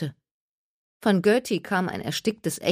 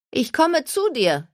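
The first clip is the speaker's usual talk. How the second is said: calling; 9 semitones higher, 4 dB louder than usual. A narrator's reading. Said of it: "rief Jenna ihr zu".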